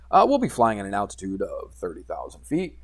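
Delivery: lightly voiced airline pilot; mumbling pilot voice. Pilot telling passengers the cruising altitude, lightly mumbled pilot voice. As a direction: mumble slightly, like a pilot's announcement. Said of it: "He kind of mumbles a little bit".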